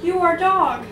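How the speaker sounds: exasperated man. Acted. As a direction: chide the dog in disbelief. Man scolds dog in poem.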